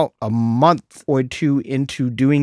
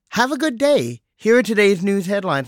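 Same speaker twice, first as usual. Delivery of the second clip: mock phone assistant cheer; chirpy assistant voice; 6 semitones higher than usual. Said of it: "And it says".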